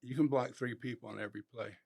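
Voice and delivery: hushed, confidential coaching; private, intimate. Retold or imitated. Insider talking behind the lineman's ear, private and intimate. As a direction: slip it softly into his ear.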